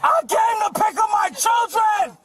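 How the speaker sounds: yelling to be heard; shouting. Real, not acted. Father protests arrest.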